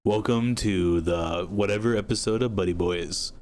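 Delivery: slow, lightly put-on host welcome; soothing radio voice. Host opening the Buddy Boys show, slow soothing radio voice. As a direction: ease slowly into a radio intro. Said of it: "Soothing radio voice".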